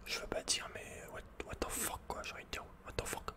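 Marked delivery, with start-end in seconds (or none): none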